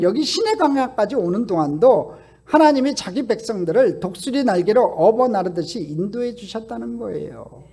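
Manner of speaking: usual speaking voice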